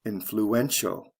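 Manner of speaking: "Influential" stressed on EN, the third syllable. Shown as a demonstration. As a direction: lean on the EN in "Influential". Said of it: "third syllable".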